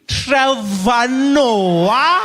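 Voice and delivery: very slow, high, loud rising question; dawning recognition. Retold or imitated. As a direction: stretch it out as you recognize him. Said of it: "I said".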